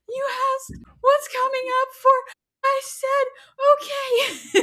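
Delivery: high, loud, squeezed through laughter; cracking up mid-sentence; laughing. Real, not acted. Repeating his words to husband, real laughter.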